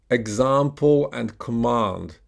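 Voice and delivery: "example" and "command" with long AH, British style; slow "example and command", broad AH as in British English; British pronunciation. Shown as a demonstration. Teacher contrasts British with American English, broad AH in "example and command". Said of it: "in British English, we will say".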